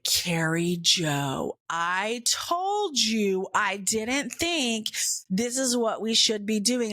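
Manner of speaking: slow, drawn-out fatherly I-told-you-so; exasperated dad. Retold or imitated. Dad reproving his daughter on the road, mildly exasperated. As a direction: lightly imitate a father spelling it out slowly.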